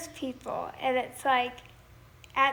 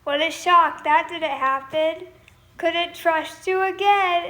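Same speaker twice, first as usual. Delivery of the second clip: mock sarcastic, a bit louder; sarcastic retort; 3 semitones higher, 6 dB louder than usual. Telling the sweet talker off with sarcasm. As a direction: throw it back with bitter sarcasm. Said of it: "And you're like".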